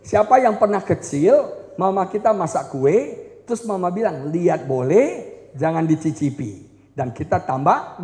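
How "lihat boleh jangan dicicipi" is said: low, soft mock mother voice; hint of a mother scolding gently; mother's warning. Mother warning her kid off the cake, low and soft. Mother warns child in story.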